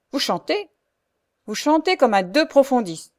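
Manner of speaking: mock her singing savagely; fierce mockery. The Frochard fiercely mocks Louise's singing. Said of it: "exclamation féroce".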